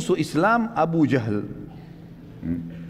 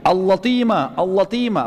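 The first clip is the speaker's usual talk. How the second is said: mock shout, slightly raised in volume; imitated alarm cry; 4 semitones higher, slower than usual. Damdam warns Mecca of an attack, mock shouting. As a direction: call it out twice like a re-enacted alarm. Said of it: "Dia teriak".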